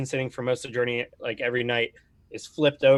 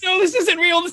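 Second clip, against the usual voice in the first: very high, loud, frantic, panicking voice; 6 dB louder than usual. A game player voices a man who won't accept what has happened, panicking. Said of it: "he's just like really panicking".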